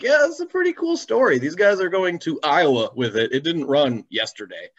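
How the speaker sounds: a hint of an enthusiastic judge; impressed judge. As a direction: imitate a judge who is delighted by the story.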